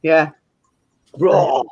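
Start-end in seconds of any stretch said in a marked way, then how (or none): 1.2-1.6 dinosaur roar. Pretend. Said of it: "What, Steve just roared?".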